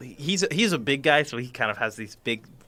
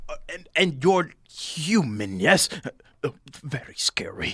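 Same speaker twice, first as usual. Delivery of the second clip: wary halfling; 3 semitones higher than usual. Acted. Halfling questions the visitor again.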